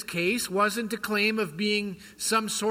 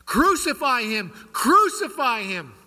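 raised, louder mock shout of a crowd; mock crowd yell; 4 semitones higher, 5 dB louder than usual. Preacher voicing the crowd yelling at Pilate, a raised mock shout. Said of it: "we see the Jews yelling to Pontius Pilate".

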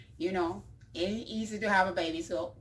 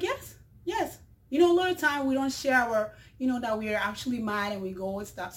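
eager urging; 3 semitones higher, faster than usual. Acted. Fellow passenger urges the mother to confront the driver, eager. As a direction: rush her along with enthusiasm.

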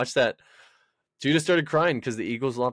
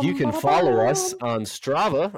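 slow, airline announcement voice; like a stewardess doing the cabin announcement; flight attendant; 2 semitones higher, slower than usual. Pretend. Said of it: "I sounded like a stewardess".

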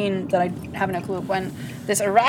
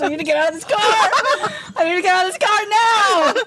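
phobic panic; 11 semitones higher than usual. Real, not acted. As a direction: freak out about the spider. Panics over spider in car.

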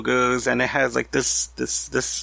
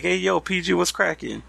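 casual greeting; 5 semitones higher than usual. Retold or imitated. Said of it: "I would have been like".

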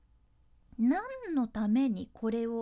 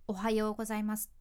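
bright greeting; faster than usual. Shown as a demonstration. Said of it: "形式的になってくると".

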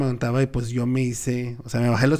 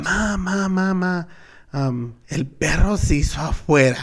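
put-on child voice; 2 semitones higher, slower than usual. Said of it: "Y yo le dije a mi mamá".

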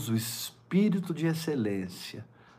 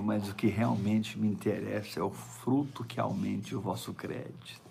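hushed; 2 semitones lower, 7 dB quieter than usual. Acted. Drops to hushed emphasis.

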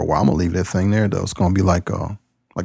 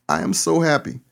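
tearfully happy; 7 semitones higher than usual. Real, not acted. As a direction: say it overwhelmed with joy. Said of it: "I think I'm gonna cry".

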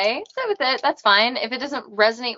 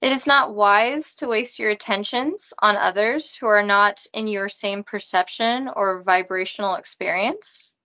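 Robot voice. Acted. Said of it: "I talk in a robot voice".

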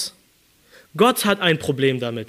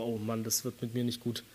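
soft, defeated sigh of a line; mock despair; 6 semitones lower, 15 dB quieter than usual. David imagined lying depressed, muttering softly and hopelessly. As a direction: mutter it as if already given up. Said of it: "lag depressiv".

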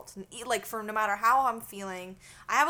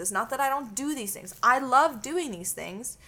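retold argument, higher and emphatic; exasperated protest; 4 semitones higher, 5 dB louder than usual. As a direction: plead your case in a raised voice. Acts out her side of quarrel.

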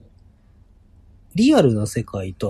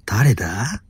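whispered; much slower than usual. Real, not acted. Puzzled on seeing the DM.

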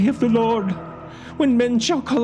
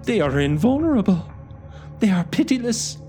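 high, loud, hopeless; despairing curate; 12 semitones higher, 3 dB louder than usual. A narrator's reading. Curate despairs to the narrator about the Martians, loud and high. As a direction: insist they cannot be beaten.

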